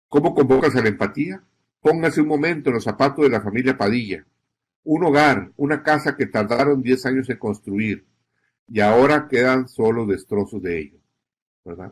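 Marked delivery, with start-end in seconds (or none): 1.8-11.0 a touch tragic. Shown as a demonstration. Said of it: "Una acentuación así, al final quizá un poquito trágica".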